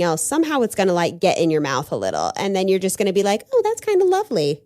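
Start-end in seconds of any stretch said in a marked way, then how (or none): 3.5-4.6 mock delight. Mock delight at sticky honey.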